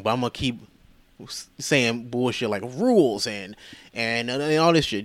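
needling, self-satisfied power play, acted out; imitating someone pretentious who enjoys the power. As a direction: smugly stretch out the provocation. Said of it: "really pretentious shit".

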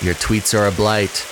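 sing-song rhyming read-aloud; poem reading. Acted. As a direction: read it like a children's rhyme. Reads a Dr Seuss style poem.

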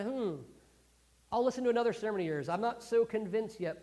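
acted hesitant interest; doubtful pondering. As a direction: play a listener not yet won over. Acts out unconvinced but curious hearers.

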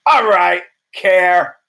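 a mock change of heart; mock sudden interest. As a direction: sarcastically snap to attention. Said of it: "And I was like".

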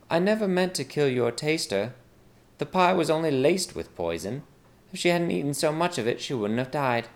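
lightly voiced maid proposing a deal; scheming maid. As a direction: offer the plot casually. Maid's dialogue in story.

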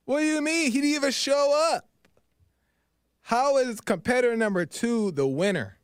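high-pitched outraged disbelief; shocked disbelief. Retold or imitated. Crowd protesting the angel's verdict, high and shocked. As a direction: pitch it way up, stunned and indignant. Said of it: "everybody's like".

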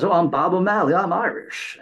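high, loud, eager tourist gushing his Irish roots; mock eager Texan tourist. Tourist from Texas telling Irish locals he's Irish, eager and high. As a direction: ham up a proud Texan claiming to be Irish. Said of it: "Bob from Odessa, Texas, who shows up and says".

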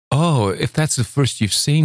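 high, delighted exclamation; cried out. A narrator's reading. Luli delighted at the first flower, high and bright. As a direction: burst out with childlike delight. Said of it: "she cried".

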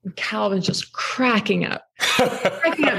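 words broken by real laughter; amused laugh as she recalls her son; laughing while telling. Real, not acted. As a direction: chuckle through it. Laughing recalling son's reaction.

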